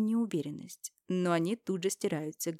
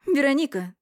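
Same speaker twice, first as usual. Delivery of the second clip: much higher, loud female call; Irina cutting her off; 8 semitones higher, 9 dB louder than usual. Acted. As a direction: Irina snaps her name to stop her. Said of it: "Отсекает Ирина". (Ирина резко обрывает, выше и громко)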